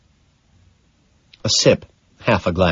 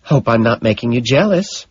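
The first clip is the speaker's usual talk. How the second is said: teasing; 4 semitones higher than usual. Acted. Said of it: "she teasingly chirps".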